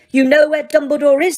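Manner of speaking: high, loud eager pounce. A narrator's reading. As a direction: leap at the clue. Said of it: "said Umbridge eagerly".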